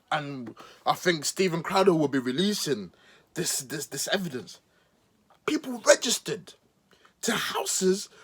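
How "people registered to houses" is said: a sudden breathy stage whisper; conspiracy whisper for effect; mock whisper. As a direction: whisper it like a secret. Conspiratorial aside about fraud.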